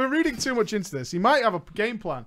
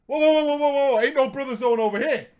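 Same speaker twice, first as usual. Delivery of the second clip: mock backpedal; 4 semitones higher, faster than usual.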